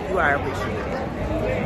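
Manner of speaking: tender reassurance. Shown as a demonstration. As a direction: say it gently to the veterans. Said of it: "If you haven't heard it in a while".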